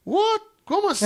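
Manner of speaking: very high, loud "What? Como assim?" in disbelief; telling friends how stunned he was, high and loud; stunned surprise. Real, not acted. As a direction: gasp it out, totally thrown. Stunned at the pastor's tears.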